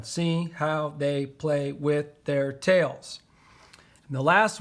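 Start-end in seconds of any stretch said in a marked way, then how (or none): 0.0-3.2 slow dictation. Shown as a demonstration. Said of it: "That's seven".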